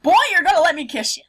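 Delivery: high, fast laughing line; giggling the words out; laughing through it. Retold or imitated. Laughing quote of character.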